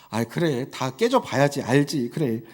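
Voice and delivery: knowing calm. Retold or imitated. Parents knowingly watching children fail.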